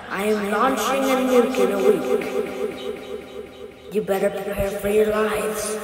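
slow, drawn-out villain threat; gloating villain. Acted. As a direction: savor every word of the threat.

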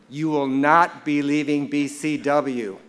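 slow, emphatic retold prohibition; mock stern. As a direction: lay down the law word by word. Mentor forbids another job move.

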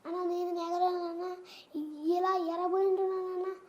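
reel dialogue. Shown as a demonstration. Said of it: "ఆయన dialogue చెప్పు ఒకసారి".

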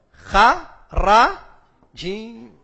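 slow deliberate spelling of the Arabic root; spelled slowly, letter by letter. Shown as a demonstration. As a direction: call out the root letters one at a time. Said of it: "spelling out root letters".

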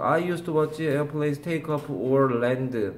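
drawn-out reading of the English sentence; slow example read. Shown as a demonstration. Teacher reading the passage sentence for the class, very slow. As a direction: read the example line word by word. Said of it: "이 지문의 해석이 틀리게 된 거죠".

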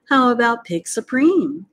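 high, loud eager suggestion; lamb. A narrator's reading. Lamb suggesting a slogan, high and eager. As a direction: pipe up like a keen young lamb. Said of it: "asked one of the lambs".

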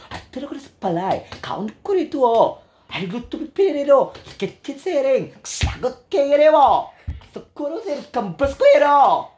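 high, swooping mock Korean lilt; exaggerated Korean accent, endings punched loud; Korean intonation on Bisaya. Host speaking local words like a Korean, mock Korean accent. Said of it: "nabuang na din ko Korean".

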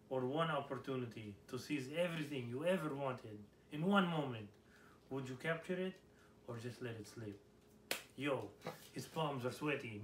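put-on rapping in a hammy Russian accent; loud Russian-accented rap. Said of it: "Sing your favorite karaoke song in a Rus-, Russian accent".

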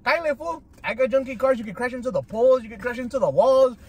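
high-pitched excited rant. Real, not acted. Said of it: "He gets excited".

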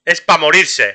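loud exasperated repeat; exasperated outcry. Real, not acted. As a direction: throw it out in loud disbelief. Repeats line, louder then muttered.

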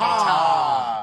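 one punchy loud ta; sharp shouted ta. Shown as a demonstration. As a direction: bark out the syllable ta. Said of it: "Ta at the end of it".

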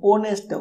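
"ऑनेस्ट" opening on the O vowel; no H at the start of "ऑनेस्ट"; silent H. Shown as a demonstration. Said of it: "ओ का sound निकलता है". ("ऑनेस्ट", ओ की आवाज़ से शुरू)

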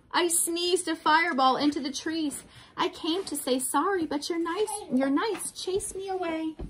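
high, pleading storybook voice; dragon protesting. A narrator's reading. Dragon explaining the fire to the king, high plaintive protest. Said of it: "he roared".

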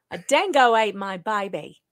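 hammed-up Aussie accent; bad Australian accent. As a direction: attempt an Australian accent, badly. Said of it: "my Australian is bad".

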